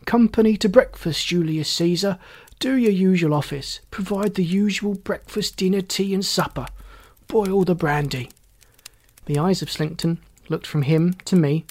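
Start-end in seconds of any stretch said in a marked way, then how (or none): 0.1-8.3 lightly voiced drunkard, pitched up; drunken, demanding Beckwith. Drunkard ordering breakfast and brandy from his associate, demanding. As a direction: reel off orders like an insistent drunk.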